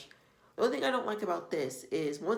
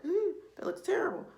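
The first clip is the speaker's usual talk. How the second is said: whispered disapproval; 13 semitones higher than usual. Retold or imitated. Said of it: "And I'll take pictures and be like".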